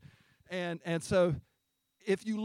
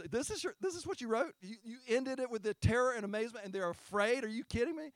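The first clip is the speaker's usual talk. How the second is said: higher, fast, mock-indignant disbelief; incredulous early Christians; 5 semitones higher than usual. Preacher voicing early Christians who scoff at the ending, incredulous. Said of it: "you imagine these people".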